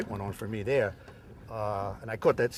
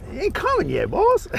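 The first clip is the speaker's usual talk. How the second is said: excited; 7 dB louder than usual. Real, not acted. Fighting a fish on the line.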